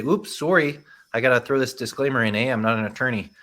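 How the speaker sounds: put-on a light, jokey Canadian accent with a tag-on "eh"; lightly hammed-up Canadian accent, apologetic; mock Canadian accent. Presenter jokingly throws a disclaimer in, mild Canadian accent. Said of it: "That's my Canadian accent".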